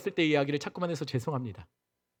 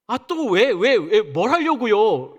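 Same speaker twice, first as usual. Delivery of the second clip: put-on whiny, louder teen back-talk, slowing on the last words; sulky teenager; 3 semitones higher, 5 dB louder, much slower than usual. Abraham talks back to God like a sulky teen. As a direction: drag it out like a fed-up middle schooler. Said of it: "중이 병 걸린 아이들처럼".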